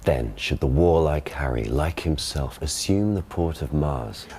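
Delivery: modern received pronunciation Shakespeare. Shown as a demonstration. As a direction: classic stage RP reading. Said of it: "he gives the modern pronunciation".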